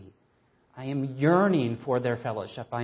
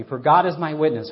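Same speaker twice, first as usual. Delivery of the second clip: "God" declared louder with weight; emphatic reading; 3 semitones higher, 9 dB louder than usual. Shown as a demonstration. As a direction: proclaim it, not lightly. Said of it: "don't use that phrase lightly".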